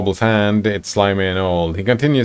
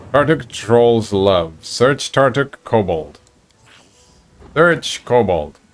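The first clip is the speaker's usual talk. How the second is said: kobold voice; 2 semitones higher, slower than usual. Acted. Kobold broken speech, slow.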